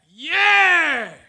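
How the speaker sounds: short high shouted reply; team yell. Retold or imitated. Teammates yelling back to their captain, loud and high. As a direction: answer like a pumped-up teammate. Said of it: "would yell back".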